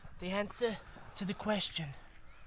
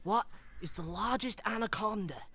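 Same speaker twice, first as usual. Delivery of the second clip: lightly hammed Australian wildlife presenter; put-on Australian, instructing young explorers; bad Australian accent. Wildlife explorer teaching boys and girls about anacondas, bad Australian accent. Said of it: "his Australian cousin, who's not got a very good Australian accent".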